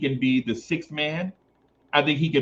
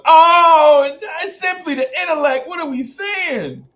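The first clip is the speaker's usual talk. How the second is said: much higher, quick, affected show-off voice; high put-on voice; 12 semitones higher, 7 dB louder than usual. Streamer playfully announcing his own brilliance in a high affected voice. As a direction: put on a lofty voice to announce himself.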